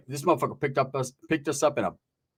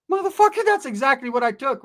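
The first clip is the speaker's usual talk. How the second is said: high mock outrage; 11 semitones higher, 3 dB louder than usual. Kid exclaims in high voice.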